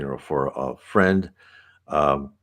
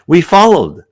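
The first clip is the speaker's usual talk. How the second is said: higher and louder "We followed", firmly launched; bold restart; 11 semitones higher, 10 dB louder than usual. A narrator's reading. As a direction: pick the reading back up with a strong, raised "We followed". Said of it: "I'll carry on".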